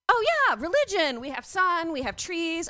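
mock-eager native explaining their religion. Acted native reply, eager.

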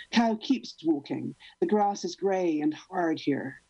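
measured, deadpan poem recital; poem reading. Acted. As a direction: read each line like a slam poem. Reads her cow poem.

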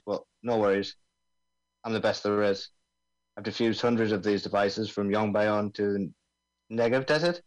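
lightly voiced Aussie bomb expert; laid-back Australian accent, mate. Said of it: "I'm supposed to be doing an Australian accent here".

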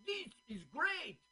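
put-on Swedish accent. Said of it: "Trying to do their Swedish accent".

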